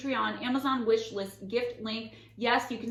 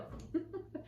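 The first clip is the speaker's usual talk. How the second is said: breathy laugh; 9 semitones higher, 11 dB quieter than usual. Real, not acted. Laughs at own robot bit.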